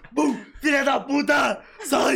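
half-playful furious yell at the partner; mock angry yell. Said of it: "ela vira e".

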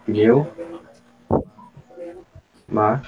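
pneu... ma, said syllable by syllable with long gaps; spelling out the syllables for the class; syllables split apart. Shown as a demonstration. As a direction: break the word into its syllables. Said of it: "a gente vai separar assim".

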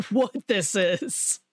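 retold panic. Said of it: "my sheer panic".

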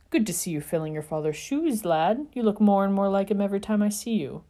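a hint of a hearty gentleman; proud older man. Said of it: "the man said proudly".

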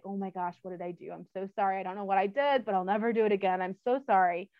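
a scared dog begging forgiveness; soft, frightened little pleading; voicing a cowering dog. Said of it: "down and tail tucked and like".

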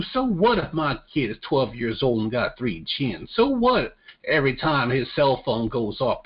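defiant trailer park Southerner in a bad southern accent. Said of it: "My southern accent is terrible".

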